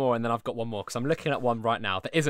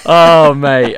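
a much louder cry of self-despair; loud groan of dismay; 3 semitones higher, 21 dB louder than usual. Real, not acted. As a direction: blurt it out at full volume, embarrassed. Host groans at own mistake.

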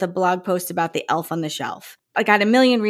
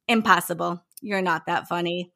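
condescending; 3 semitones lower, 5 dB quieter than usual. Retold or imitated. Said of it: "real condescending".

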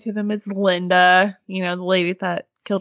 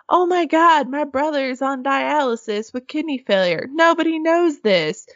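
higher-pitched imitation of a stunned man; mock amazement; 5 semitones higher than usual. Investigator revealing his brother's illness, mock amazement. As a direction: play up the astonished revelation.

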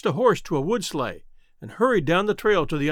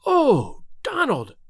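overjoyed cry; 8 semitones higher, much slower than usual. A narrator's reading. Reunion with lost brother.

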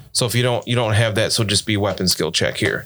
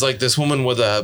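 usual speaking voice

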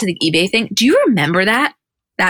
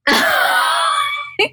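burst of laughter. Real, not acted. Mock offense at friend's remark.

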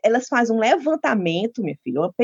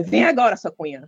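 mock stern summons that drops away at the end; bossy mother; 2 semitones lower than usual. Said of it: "A mamãe não gosta de negócio". (imitando mãe mandona)

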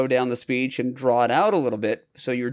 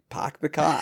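Boston accent with dropped R's. Shown as a demonstration. Showing a co-host how Bostonians drop the R, Boston accent. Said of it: "specifically the R".

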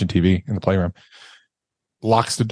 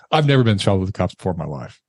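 ordinary talk

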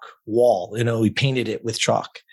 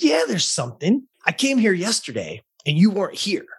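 complaining client; 8 semitones higher than usual. Retold or imitated. Client complaining, voiced high.

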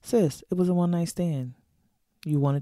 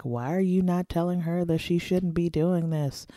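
judgy listener; 4 semitones higher than usual. Pretend. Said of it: "some people are listening to this thinking".

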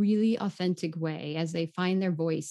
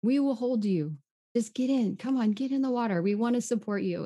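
higher, eager calls to come in; coaxing friends; 5 semitones higher than usual. Retold or imitated. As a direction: cheer her into the water. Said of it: "they came together and they said".

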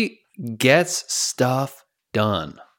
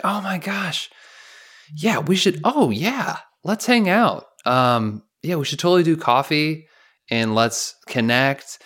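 overly eager; 5 semitones higher than usual. Retold or imitated. Mimicking eager empty promise.

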